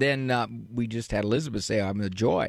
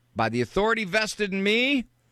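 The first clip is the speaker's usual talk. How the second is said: facetious, joking, higher mock-proclamation tone; 8 semitones higher than usual. Suggesting what a mother could say to her older daughter: facetious mock proclamation. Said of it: "I'm being facetious".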